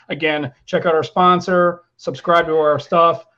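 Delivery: slow, steady host sign-off read; podcast outro. Acted. Host signs off to listeners, slow outro voice. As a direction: wrap up the show for listeners, measured.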